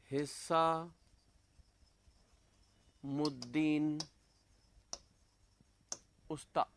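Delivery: very slow, drawn-out name with a long break; dictation. Real, not acted. Teacher writing a painter's name for students, slow dictation. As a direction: stretch the name out piece by piece.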